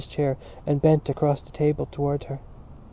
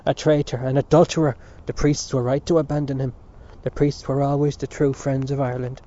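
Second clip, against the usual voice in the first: angry; 3 dB louder than usual. Acted. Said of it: "replied Dante".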